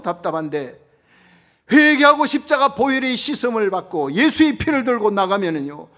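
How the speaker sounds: loud, high, fervent pulpit delivery; full-throated revival preacher; preaching at full force. Acted. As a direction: proclaim it to the whole congregation.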